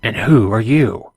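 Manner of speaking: put-on lightly French-accented question. Intercom man asks stranger's identity, light French accent. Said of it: "with a light French accent".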